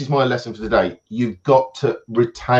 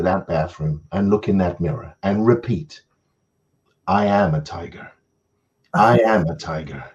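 low, deliberate self-help tape voice; American motivational speaker; 5 semitones lower than usual. Retold or imitated. A self-help tape coach instructing the listener, low and solemn. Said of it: "this American idiot was on there".

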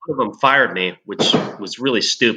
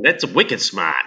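mock Boston accent, dropped r; 3 semitones lower, slower than usual. Friend teasing about being taken for Bostonian, mock Boston accent. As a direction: put on a quick bit of Boston. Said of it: "they thought I was from Boston".

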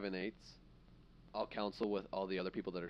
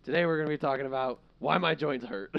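put-on laughing, higher old man voice; hammed-up creaky old host; 7 semitones higher, 9 dB louder than usual. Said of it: "flash forward, old host".

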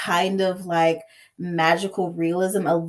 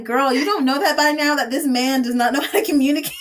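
exasperated; 6 semitones higher, faster than usual. Retold or imitated. Scolding a book character, laughing.

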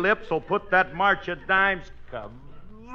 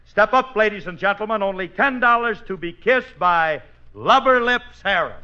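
barker pitch; 2 semitones higher than usual. Shown as a demonstration. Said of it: "All you gotta say is this".

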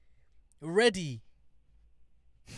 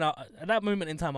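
ordinary talk

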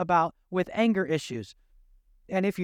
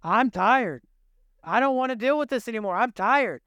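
exasperated parent; 2 semitones higher than usual. Retold or imitated. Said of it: "you're like".

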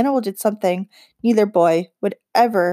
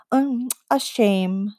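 shrugging; 3 semitones higher, much slower than usual. Acted. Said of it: "she shrugged".

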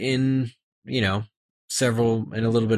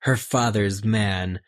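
reading a novel aloud with acted voices; reading the book scene to the co-hosts; story narration. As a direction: read the chapter out, giving each character a voice. Reads book passage aloud.

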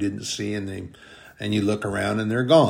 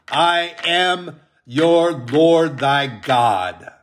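slow, louder and higher solemn declaration; voice of God; 3 semitones higher, 5 dB louder, slower than usual. Acted. Pastor voicing God's promise to the congregation, slow loud solemn proclamation. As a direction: proclaim each promise as the Lord himself.

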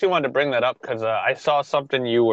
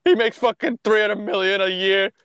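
mock angry fan; 6 semitones higher than usual. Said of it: "They're like".

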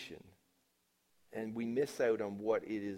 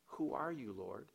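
quiet recap; 7 dB quieter than usual. Shown as a demonstration. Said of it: "You see how it goes through this passage".

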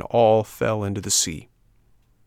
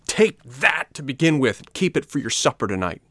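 fighting taunt; 5 semitones higher than usual. Acted. Boy strikes the puppet.

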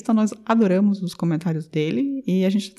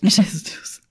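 whispered. Real, not acted. Amused exclamation.

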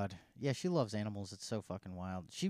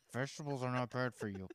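softer, controlled mock patience; retold calm correction; 5 dB quieter than usual. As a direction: imitate someone keeping calm in a diet argument. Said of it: "I start off so calm".

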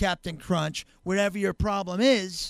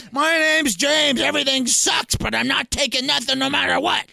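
desperate newcomer; 5 semitones higher, 6 dB louder than usual. Acted. James years later, worse, shouting his share at the meeting. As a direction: drag out his misery, louder.

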